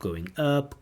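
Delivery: "going up" lifted high; rising pitch. Shown as a demonstration. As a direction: send the voice upward on "up". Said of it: "intonation talks about going up".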